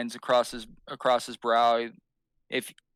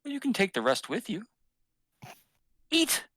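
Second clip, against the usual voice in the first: insistent host; 10 semitones higher than usual. Acted. Host presses the stew on guest.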